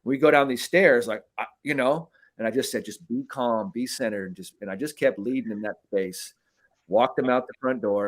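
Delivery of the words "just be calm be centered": soft calming inner voice; quietly steady yourself; calm self-talk. Retold or imitated. Telling himself to stay centered on the stairs, softly.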